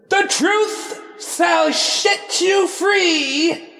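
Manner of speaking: slow, high, booming proclamation; grand proclamation. Pretend. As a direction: declare it like a prophet. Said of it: "let me do this right".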